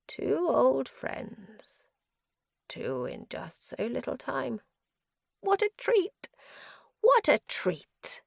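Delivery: high, lilting madman, drawn out; mad prisoner, gleeful. A narrator's reading. Prisoner greets two old friends, madly gleeful. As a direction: delight in the visitors like a lunatic.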